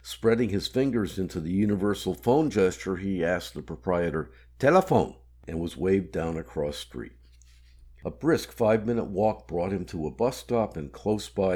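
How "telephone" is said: raised, higher call; loud call. Acted. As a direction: call it out to the owner. Asks proprietor in foreign cafe.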